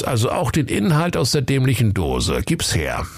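leicht verstellter Polizist; lässig großspurig reden; lässiger Kommissar. Acted. Kommissar spricht zum König. (leicht verstellter Kommissar)

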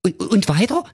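very high, flustered comic king; a panicking king shouting orders; king losing his head over his missing daughter, high and agitated; flustered King Pilsner. Acted. King eager.

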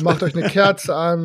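sleep story narrator. Pretend. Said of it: "wie so ein A S M R oder so eine Einschlafgeschichte".

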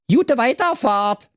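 high, slow polite robot call. Acted. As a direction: cheerfully chirp it like a robot. Höflicher Roboter ruft Autos zu. (höflicher Roboterruf)

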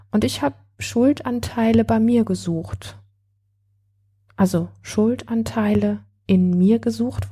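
calm, measured storytelling voice; unhurried narrator reading to a listener; story narration. A narrator's reading. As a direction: read it like a gentle audiobook. Reads a story aloud.

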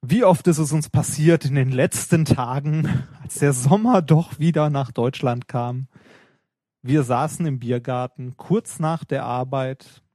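slow, dramatic storyteller opening; hammy stage build-up, slowed down; theatrical. Acted. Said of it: "lass mich das mal theatralischer einleiten".

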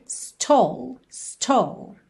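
stole said clearly as one syllable; teacher spelling out stole; new word. Shown as a demonstration. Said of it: "É uma nova palavra".

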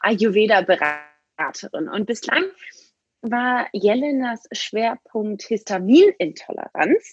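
poor sauna mic recording; muffled, low-quality mic sound; low bitrate. Real, not acted. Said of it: "Ich bin vielleicht manchmal nicht so ganz so gut zu verstehen".

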